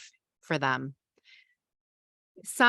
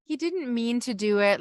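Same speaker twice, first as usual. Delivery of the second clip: cheerleading excuse; 5 semitones higher than usual. Shown as a demonstration.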